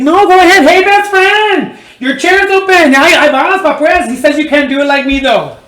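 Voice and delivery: camp it up as the scorned barber; catty jilted lover. Retold or imitated. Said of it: "She's like".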